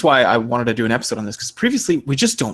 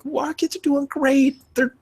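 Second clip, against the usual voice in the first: pointed retort; 9 semitones higher than usual. Retold or imitated. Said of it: "what I was thinking in the moment".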